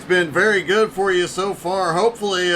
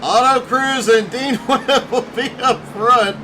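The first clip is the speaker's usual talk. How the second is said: announcing with a giggle breaking in; suppressed laughter; 3 semitones higher than usual. Real, not acted. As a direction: hold back laughter while reading the order. Still giggling while calling the running order.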